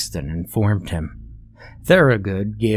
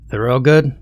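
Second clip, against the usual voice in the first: calling out; 4 semitones higher, 5 dB louder than usual. Acted. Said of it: "a deep voice called out for him".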